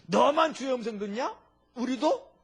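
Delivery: angry outburst. Retold or imitated. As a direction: fire it back, indignant and loud. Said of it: "버럭 화가 난 거예요".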